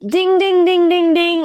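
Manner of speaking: high, loud sing-song "ding, ding" like an alarm going off; playful mock alarm chime; alarm bell imitation. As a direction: ring it out like the body's alarm bell.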